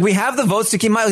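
fast, high-pitched insistence; mock exasperation. Paloma repeats the plan to her ally, exasperated. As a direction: imitate someone impatiently spelling it out.

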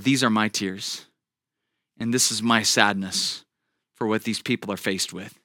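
soft, hushed divine words; God's voice. Retold or imitated. Pastor recalling God's words about suffering, softly spoken. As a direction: say it softly, like a heard inner voice. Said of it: "I believe it was God, said".

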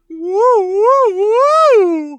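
high loud whooping; robot catcall. Retold or imitated. Host imitating a robot ogling a woman, high loud whoops. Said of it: "and it's like".

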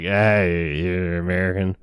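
put-on a boozy old sailor chatting through the bars; lightly voiced drunk captain; drunk cellmate.

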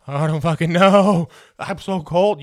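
loud cold whiny complaint; loud whine. Retold or imitated. Kids freezing, whining to mom.

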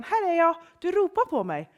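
high, loud, eager reply; eager boy answering. A narrator's reading. Samuel runs to Eli's room, eager answer. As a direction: answer the call brightly and loudly.

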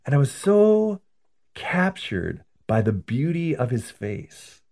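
put-on high, wondering old lady voice, slowing on the beautiful parts; enraptured grandmother. Grandmother explaining to her priest why she ran out of time, high and awed. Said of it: "And she said".

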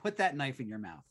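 devil on shoulder. Pretend. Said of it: "so I'm going to say".

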